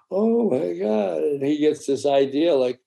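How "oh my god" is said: slow, hushed oh my God; drawn-out astonishment; awed surprise. Acted. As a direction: let the wonder sink in. Boy's raft floats.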